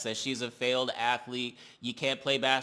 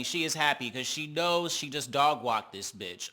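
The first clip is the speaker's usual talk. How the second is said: normal talking voice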